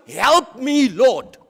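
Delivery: loud, emphatic cry for help, imitating; retold shout. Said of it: "So this woman shouts".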